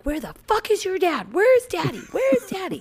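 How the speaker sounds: high panicked call for daddy; calling out in exasperation, pitch climbing; searching the house in frantic yells. Retold or imitated. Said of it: "then I'm like".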